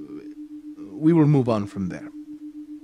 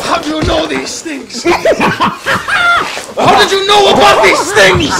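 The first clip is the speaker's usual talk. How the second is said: high, loud enraged yelling; furious shout; 17 dB louder than usual. Acted. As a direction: scream it in outrage. Hypnotist learns it is his wife.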